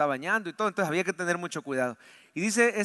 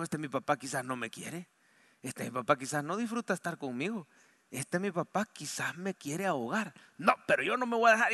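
put-on softer, brooding inner voice of a boy; a hint of a hurt boy plotting resistance; child's bitter thoughts; 3 semitones lower, 5 dB quieter than usual. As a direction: think it darkly to yourself, then resolve. Boy's angry thoughts underwater.

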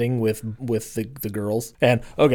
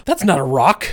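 quoting daughter, laughing; 3 semitones higher, 4 dB louder than usual. Retold or imitated. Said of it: "and Lydia goes".

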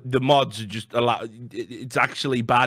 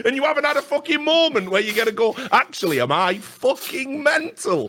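high, loud exasperated rant; angry rant; 11 semitones higher, 4 dB louder than usual. Real, not acted. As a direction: keep ranting, pitched up. Ranting at Reddit moderators.

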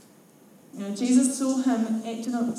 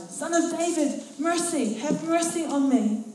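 higher, pleading cry out; yelling plea; 7 semitones higher than usual. A narrator's reading. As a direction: beggar calling over the crowd again. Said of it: "he yelled all the louder".

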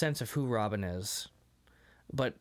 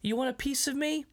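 goofy tough guy; 10 semitones higher than usual. Retold or imitated. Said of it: "weird thing that he keeps doing".

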